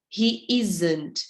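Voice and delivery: "isn't" with a buzzed Z sound. Shown as a demonstration. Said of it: "Esse S vai ter som de Z". ("isn't" com o S soando como Z)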